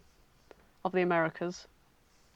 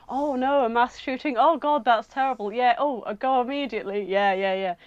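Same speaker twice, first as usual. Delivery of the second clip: mock alarm on a fake call; lightly acted urgent phone talk; pretend phone reaction; 3 semitones higher than usual. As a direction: play at hearing grave news. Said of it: "pretending like he's hearing Obama talk back".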